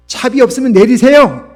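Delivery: loud, high angry shout; scolding shout. A narrator's reading. Bus driver ordering a penniless old passenger off, scolding shout. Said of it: "호통을 치며".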